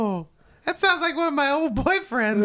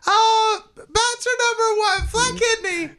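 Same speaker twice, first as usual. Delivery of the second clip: higher, put-on contestant voice; silly contestant voice; 5 semitones higher, slower than usual. Ann answering the host in a silly put-on voice. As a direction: play a gushing game show guest. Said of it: "I don't sound like this".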